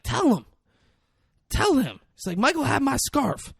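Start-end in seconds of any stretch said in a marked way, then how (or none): 0.0-2.0 high-pitched imitation of a crying wreck; mock crying. Wrecked man insists the other confessed, mock crying. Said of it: "he's crying. He's a wreck". 2.4-3.5 high, loud, distraught wail; mock crying. Wrecked man pours out his grievances, mock crying. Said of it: "he's crying. He's a wreck".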